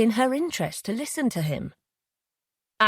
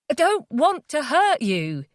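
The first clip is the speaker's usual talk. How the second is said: shaken plea; 8 semitones higher, slower than usual. Acted. Jay shaken after hitting her.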